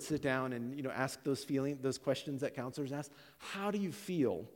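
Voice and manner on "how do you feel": higher-pitched counselor voice; counselor's probing question. Retold or imitated. Counselor questioning a couple in premarital counseling, probing. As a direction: gently imitate a probing counselor.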